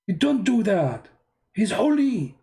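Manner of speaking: mock pious scolding. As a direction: scold like a shocked devotee. Mimics a pious believer.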